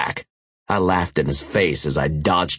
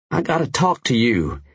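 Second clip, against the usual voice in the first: put-on higher, tense young biker voice; urgent biker voice; 5 semitones higher than usual. Tanner's voice, urgent.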